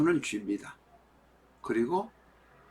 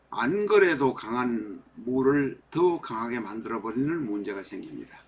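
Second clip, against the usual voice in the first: numb from the dentist. Real, not acted. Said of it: "제가 치과에 갔다 와서".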